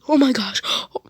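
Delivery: very high, loud shrieking panic, rising; panicked scream. Retold or imitated. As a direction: shriek in terror over grandma. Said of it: "she starts screaming in panic".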